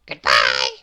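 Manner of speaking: very low, loud little man voice; Mister Small asking. Acted. Lost Mister Small asks for help, very low voice. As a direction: ask politely in a deep voice. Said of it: "said the confused Mister Small".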